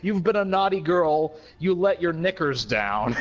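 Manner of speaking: slow, solemn recital of the lyrics; dramatic lyric reading. Acted. Reading Walrus lyrics aloud to co-hosts, slow and mock-solemn. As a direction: read it like grave poetry, taking your time.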